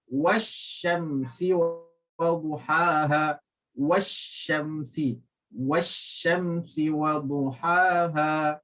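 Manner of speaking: Wasyamsi wa duhaha slow, shin doubled; tajwid recitation. Shown as a demonstration. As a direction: recite slowly, merging into shin. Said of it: "huruf shin". (bacaan perlahan Wasyamsi wa duhaha)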